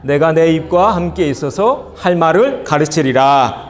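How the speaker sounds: measured, solemn reading of the verse; scripture reading aloud. Acted. Congregation reading Exodus together, solemn. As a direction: read the word slowly and weightily.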